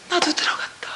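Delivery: hushed, stunned whisper of 나도 들어갔다; a whispered discovery; awed whisper. Real, not acted. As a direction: breathe 나도 out in wonder. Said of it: "awed realization, repeated".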